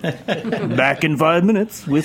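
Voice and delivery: slow, laughing radio DJ voice; signing off like a late-night DJ. Acted. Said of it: "is that your D J voice?".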